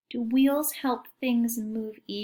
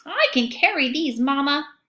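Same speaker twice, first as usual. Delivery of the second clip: donkey voice; 4 semitones higher, 6 dB louder than usual. Acted. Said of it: "the donkey says".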